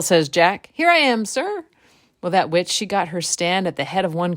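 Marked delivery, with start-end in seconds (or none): 0.7-1.6 eager answer. Acted. Drinkwell presents himself.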